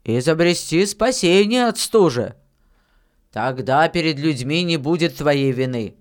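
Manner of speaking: lightly voiced miller giving a boy his task; a touch of the grave elder; stern miller, instructing. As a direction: counsel the boy firmly.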